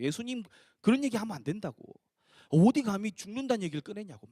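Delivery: mild mock telling-off; acted scolding. Peter scolding Jesus for talk of dying, mild acted rebuke. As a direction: scold him, lightly indignant. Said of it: "베드로가 꾸짖은 거예요".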